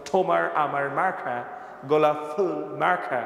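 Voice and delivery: Bangla slogan as an English speaker would say it; mock English-accented Bangla slogan. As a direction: imitate an Englishman speaking Bangla, aspirated consonants. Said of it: "ইংরেজরা যদি ওই ... তাহলে কি বলতো".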